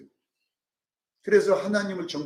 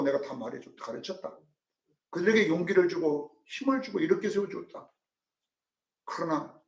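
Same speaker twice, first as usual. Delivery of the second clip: voicing Job. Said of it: "욥은 일괄적으로 모른다고 계속 말하는".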